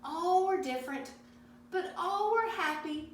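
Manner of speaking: put-on paced read-aloud for children, pausing between pages; a gentle picture-book read-aloud; storybook reading. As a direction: read each page to the kids. Reads Elmer aloud.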